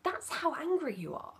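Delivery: put-on name the child's feelings tenderly; soothing acknowledgement. Shown as a demonstration. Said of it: "just acknowledge their feelings".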